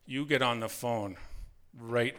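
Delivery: measured mock-stern order, pausing before each part; strict instructions. Mother warning her son about dad's drinking, retold as strict instructions. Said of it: "Mom gave me strict instructions".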